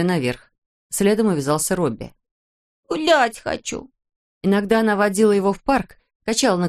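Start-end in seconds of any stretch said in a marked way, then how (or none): 2.9-3.9 put-on high, slow little-boy whine; a toddler whining to go out; whiny small boy. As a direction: beg like a small child. Little Robbie begging.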